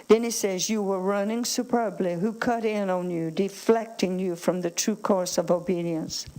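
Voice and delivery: firm, projected Bible reading to a congregation; emphatic scripture reading. Acted. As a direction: read the verses out with weighty emphasis. Resumes reading Scripture aloud.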